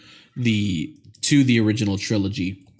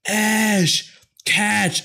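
high-pitched mock voice; 11 semitones higher than usual. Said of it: "Pablo's like".

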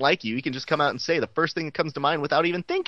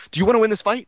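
coach yelling; 5 semitones higher, 6 dB louder, much faster than usual. Retold or imitated. Coaches yelling pep talk.

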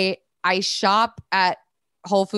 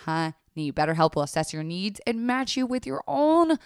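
ad read. Acted. Sponsor ad read.

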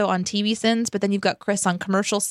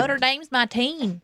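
mocking imitation; 4 semitones higher than usual. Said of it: "I hope I don't say it like that".

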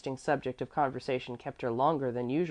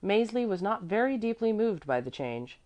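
plain reading voice

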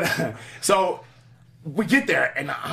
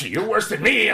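higher sassy comeback; 7 semitones higher, 5 dB louder, slower than usual. Retold or imitated. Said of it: "She goes".

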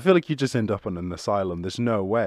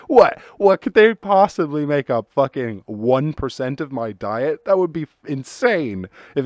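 mock rant; 4 semitones higher, 6 dB louder than usual. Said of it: "I'd be like".

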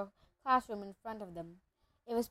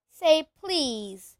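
high, loud teasing; Peeves, sing-song; 5 semitones higher, 6 dB louder than usual. A narrator's reading. Peeves stalls Filch, annoying and sing-song. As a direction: dangle it like a taunt. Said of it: "said Peeves in his annoying sing-song voice".

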